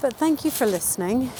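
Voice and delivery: breathless from the climb; a little winded while walking; out of breath. Real, not acted. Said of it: "I am walking up stones now".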